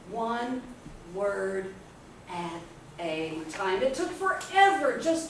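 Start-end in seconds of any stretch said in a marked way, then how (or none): 0.1-3.8 halting, one word at a time. Shown as a demonstration. Showing how she read with a magnifying glass, laboriously slow. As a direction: separate each word with a long pause.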